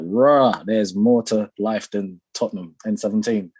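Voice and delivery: a touch of awed excitement, retold; retold gassed amazement. Guest recalling his first trip abroad, mildly gassed. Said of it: "I was so gassed".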